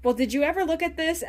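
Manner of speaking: giddy, flustered after being flirted back with; flustered and laughing. Retold or imitated. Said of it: "the person flirts back and they're like".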